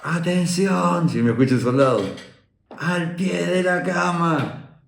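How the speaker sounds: imitated military wake-up order; drill sergeant's shout. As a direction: call out like an instructor waking the conscripts.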